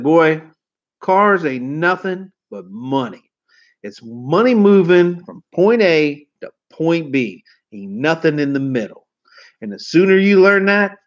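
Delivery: slow, lightly voiced gruff old-timer lecturing a boy; a hint of a gravel-voiced veteran laying down the law; gruff old salesman. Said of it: "real gruffy voice".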